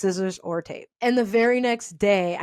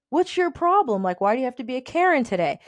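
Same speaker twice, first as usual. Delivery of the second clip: higher-pitched start, quickening into a complaint; mock exasperation; 3 semitones higher, faster than usual. Guest asking a clerk what her problem is, mock exasperated. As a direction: imitate a put-out guest, not quite angry. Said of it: "it's not like he's angry".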